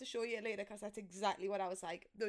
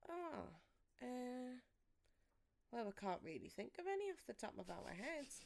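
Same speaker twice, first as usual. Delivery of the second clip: mock parents hedging; 11 dB quieter than usual. Parents quoted evasively.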